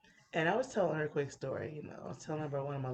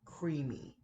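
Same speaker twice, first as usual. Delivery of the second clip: CREAMY said slowly and carefully; slow down on CREAMY, sounding it out. Shown as a demonstration. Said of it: "gonna have to slow it down".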